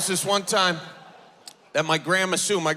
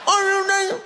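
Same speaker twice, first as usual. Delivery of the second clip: high, loud, fast screaming; 13 semitones higher, 4 dB louder, faster than usual. Retold or imitated. Grandma screaming at Grandpa Bob over dentures, loud and high. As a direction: scream at him from the top of the stairs. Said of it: "she was screaming at him".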